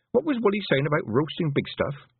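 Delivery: put-on a touch of stern girl demanding an answer. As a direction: press him for the truth. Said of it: "Tiffany demanded".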